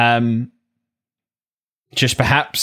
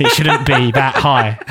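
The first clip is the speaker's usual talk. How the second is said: laughing; 4 dB louder than usual. Real, not acted. Laughing at own science complaint.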